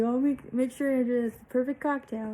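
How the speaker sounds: lightly mocking anesthesiologist; imitating the anesthesiologist. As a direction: play the doctor proudly mixing a cocktail. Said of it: "He's like".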